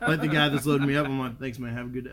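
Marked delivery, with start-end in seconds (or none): 1.4-2.1 put-on Southern country-boy sign-off, lower and softer; thick Southern accent. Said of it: "I put on my thickest Southern accent".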